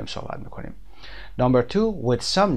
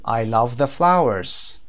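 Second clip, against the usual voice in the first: slow teaching read; much slower than usual. Shown as a demonstration. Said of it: "وقتی که حرف تعریف the رو میاریم".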